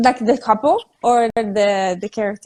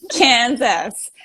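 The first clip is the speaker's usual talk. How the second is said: Kansas, trying American. Retold or imitated. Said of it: "the best I could do for an American accent".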